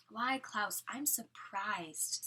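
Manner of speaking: slow, sarcastic fake surprise; mock surprise. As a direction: draw it out as mockery.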